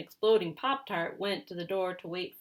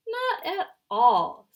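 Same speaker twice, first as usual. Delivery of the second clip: squeaky chipmunk voice; 11 semitones higher, 13 dB louder, slower than usual. Acted. Chipmunk voice, slow denial.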